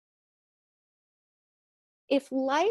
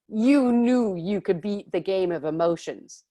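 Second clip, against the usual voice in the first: spirit guides; 2 semitones lower, 5 dB louder than usual. Retold or imitated. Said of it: "And like".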